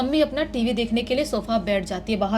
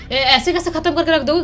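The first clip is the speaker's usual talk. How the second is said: stammering fear; 4 semitones higher, 4 dB louder than usual. Acted. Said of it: "घबराते हुए बोलती है".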